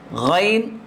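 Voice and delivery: throat sound ghain drawn out; letter sound demo. Shown as a demonstration. Teacher sounding غین for the class. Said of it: "دو حرف اوپر سے نکلتے ہیں".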